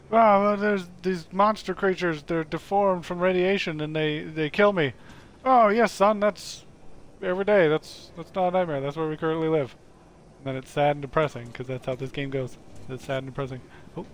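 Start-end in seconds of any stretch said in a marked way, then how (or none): 0.1-4.9 a touch of mock distress; lightly voiced Nightmare Guy. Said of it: "Nightmare Guy wakes up and goes". 5.4-9.8 raised pitch, mock consoling; lightly acted father figure. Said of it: "And then he goes".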